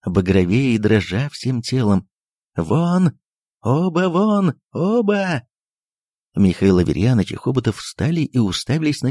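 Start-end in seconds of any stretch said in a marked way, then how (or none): 2.6-5.4 high, furious shout of get out. A narrator's reading. The doctor yells at both guests, high and furious. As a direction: drive them out with a high yell. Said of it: "продолжал кричать Андрей Ефимович".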